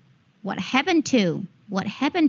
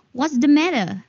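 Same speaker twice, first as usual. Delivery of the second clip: British "matter" without the final r; higher-pitched teacherly British demo; British accent; 6 semitones higher, 3 dB louder than usual. Shown as a demonstration. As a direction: say it British, r dropped at the end.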